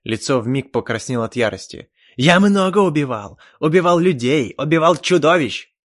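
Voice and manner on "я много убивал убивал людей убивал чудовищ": loud, higher furious yelling; furious shout. Acted. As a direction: roar it in rage. Elf furious, face red.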